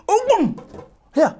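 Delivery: high, pained cry; tortoise begs mouse to let go of his nose. Acted. Tortoise cries with nose bitten.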